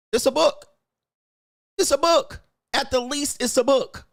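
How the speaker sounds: high, mocking sing-song of it's a book. Mocking the viewer's comment in a high squeaky voice.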